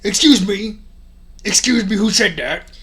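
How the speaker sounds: yelling. Acted. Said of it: "yelled Mister Norris".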